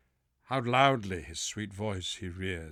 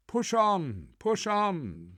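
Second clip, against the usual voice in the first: high, loud cheerful urging; rally the rowers, bright and loud; cheerily; 10 semitones higher, 5 dB louder, slower than usual. Acted. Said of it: "said the hermit cheerily".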